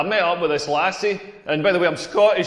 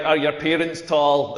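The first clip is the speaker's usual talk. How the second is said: slow mock question; 5 semitones lower, slower than usual. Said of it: "They'll say things like".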